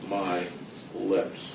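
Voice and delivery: slow, drawn-out words with pauses; real slowly. Retold or imitated. God to a man with a PhD, real slowly. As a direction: spell it out one word at a time. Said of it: "I'm gonna say this real slowly".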